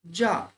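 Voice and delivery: জার with a long English a, jar; জার as the English word; English word demo. Shown as a demonstration. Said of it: "উচ্চারণ কি হচ্ছে?".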